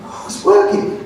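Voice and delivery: hushed wonder as if the trick works; amazed inner thought. Retold or imitated. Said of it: "I thought".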